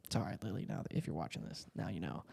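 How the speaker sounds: soft, low half-whispered aside; hushed aside. Real, not acted. Quiet aside to sister Lily, hushed. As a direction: drop to a hush as if confessing.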